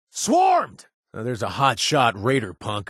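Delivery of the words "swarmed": high, loud panicked cry; alarmed shout. Acted. Beckett warning the player about a swarm, panicked. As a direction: blurt it out in mock panic.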